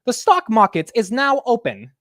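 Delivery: high, badly faked British accent; hammed-up mock British accent, high and loud; horrible British accent. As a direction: attempt a British announcer opening the market. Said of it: "that's a horrible accent".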